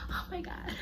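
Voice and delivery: a breathy, high gasped oh my God; panicked gasp. Retold or imitated. Worrying about her family, a gasped panic.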